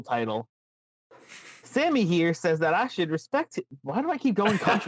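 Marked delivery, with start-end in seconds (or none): 1.6-4.9 put-on slipping into a deep Southern country accent; Southern country Bray. Host pointing at Sami's cutout with a Southern country twang. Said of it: "deep Southern country".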